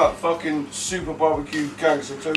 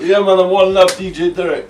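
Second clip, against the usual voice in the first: shout-out; 4 semitones higher, 9 dB louder than usual. Real, not acted.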